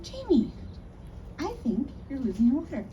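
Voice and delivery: high call of her name, then worried; insisting friend. Retold or imitated. Friend tells Jamie her water is breaking, insistent. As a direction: press her with concern.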